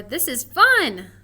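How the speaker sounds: excited. Shown as a demonstration. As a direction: say it like you mean it. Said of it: "Which way do we think".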